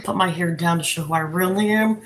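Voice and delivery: ordinary talk, nothing marked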